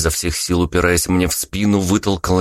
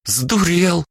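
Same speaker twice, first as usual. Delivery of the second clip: exclaiming; 13 semitones higher than usual. A narrator's reading. Exclaims at absurd request.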